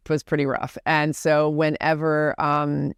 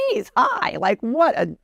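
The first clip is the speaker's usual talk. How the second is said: mock shocked reaction; 7 semitones higher, slower than usual. Mocking reaction to coach's price.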